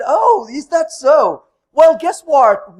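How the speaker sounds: slow, pointed and sarcastic; slow it down and dare him to argue; defiant challenge. Retold or imitated. Speaker challenging the stubborn developer.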